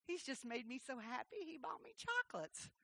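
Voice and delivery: soft, lightly voiced pleased father; smiling dad. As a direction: say it quietly through a smile. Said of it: "That's what his smile said".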